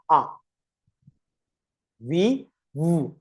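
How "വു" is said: "വു" as a held buzzing "vvv"; V sound. Shown as a demonstration. Teacher models V with lip tucked, held "vvv". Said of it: "താഴത്തെ ചുണ്ടിനെ ഉള്ളിലേക്ക് ആക്കാം".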